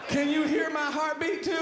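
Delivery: high-pitched frantic yell; hammed-up freak-out at full pitch; acted drugged panic. Acts drugged panic at the airport.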